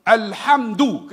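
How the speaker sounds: loud, slow reading of "Alhamdu"; Quran recitation. Shown as a demonstration. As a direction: recite as in prayer. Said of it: "Kenapa alhamdu?". (bacaan Quran yang lantang)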